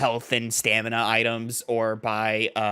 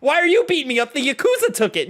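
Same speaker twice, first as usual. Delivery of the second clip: much higher, louder complaint; protesting thug; 11 semitones higher, 3 dB louder than usual. Acted. Street thug complaining to the hero, higher and louder. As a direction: yelp out the protest mid-beating.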